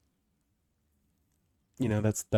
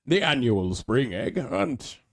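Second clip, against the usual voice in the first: drawn-out, bouncy event announcer; hammy festival host, slow; put-on announcer accent; 3 semitones higher, slower than usual. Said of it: "I don't know what my accent is".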